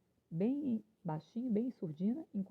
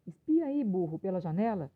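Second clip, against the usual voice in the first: urgent calling out; 4 dB louder than usual. Acted. Rooster telling the donkey to look through the window, urgent call.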